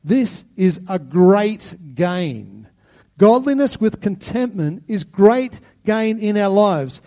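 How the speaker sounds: loud, emphatic preacher, weighting each word; passionate. Acted. Preacher voicing Paul's passion to the congregation, passionate and loud. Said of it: "hear the passion in his voice".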